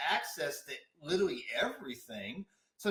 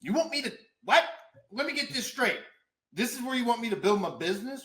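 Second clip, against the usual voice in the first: incredulous; 4 semitones higher, faster than usual. Retold or imitated. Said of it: "I was like".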